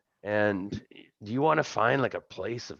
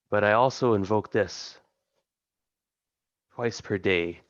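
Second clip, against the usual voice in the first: lightly voiced imperious god with long pauses; otherworldly patron. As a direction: draw the words out like a disturbed deity. Game master voices patron granting favor.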